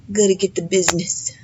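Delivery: playful whispered aside. Real, not acted. Joking to viewers about her late-night business, whispered. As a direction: whisper it like a little secret.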